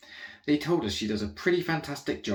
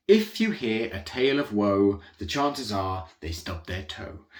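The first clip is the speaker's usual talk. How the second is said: reciting a saying; 2 semitones lower than usual. Acted. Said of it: "It's like the old saying goes".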